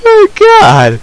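very high, loud "oh god"; shaken wail. Real, not acted. Gamer recovering from a spider scare, shaken high wail. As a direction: cry out high, still rattled.

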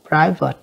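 Private, first syllable stressed, falling away. Shown as a demonstration. Teacher repeating Private for students, first-syllable stress. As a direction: stress the start of Private and let it fall. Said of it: "nhấn âm đầu".

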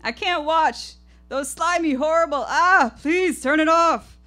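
put-on high, loud, disgusted pleading old woman; squeamish grandmother. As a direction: beg like she can't bear to look. Grandmother can't bear snakes.

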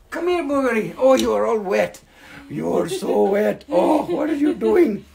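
high cooing fuss over a dog; puppy talk. Real, not acted.

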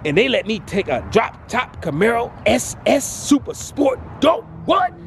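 high, joyful shout; ecstatic shout. Real, not acted. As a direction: shout out pure joy.

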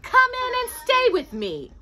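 high, sugary false kindness; sweet old witch. Acted. Old witch welcoming the lost children, sugary.

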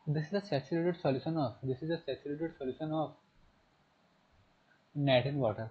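very slow, word-by-word reading aloud; slow textbook reading. Shown as a demonstration. Teacher reading the textbook definition to the class, slow and deliberate. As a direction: read the definition slowly so students can follow.

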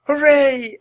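high, loud cheer; joyful shout. Acted. Annie celebrates Penny's return, joyful shout. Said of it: "Annie shouted".

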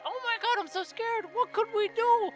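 high, hammed-up helpless squeal, slowing on poor old me; sarcastic high-pitched damsel in distress; mock damsel fright. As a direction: play the frightened little victim, all for laughs. Mock panic at game propaganda.

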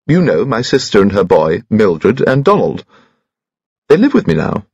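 a hint of the piping little voice; high-pitched Bunchy. Bunchy explains his family to Troy, lightly piping.

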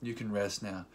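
soft, low comforting words; hushed, understated farewell; tender reassurance. Retold or imitated. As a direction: gently imitate a wife soothing her dying husband. Retells wife comforting dying husband.

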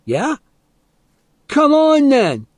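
high, challenging yell; loud, high-pitched challenge to fight; sudden shout. A narrator's reading. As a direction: burst into a shouted dare. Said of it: "Teddy suddenly shouted".

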